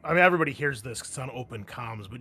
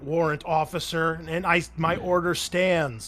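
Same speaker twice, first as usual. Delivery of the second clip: raised, firm command voice; forceful order; 4 semitones higher, 7 dB louder than usual. Acted. Captain overruling warrant officer, forceful order. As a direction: lay down the order, slowing at the end.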